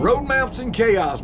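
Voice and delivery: slow channel announcement. Shown as a demonstration. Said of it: "Let him say his YouTube channel".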